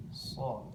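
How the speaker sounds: "So" with the tongue lifted, heavy. Shown as a demonstration. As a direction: lift the tongue back on "So". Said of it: "lidahnya terangkat".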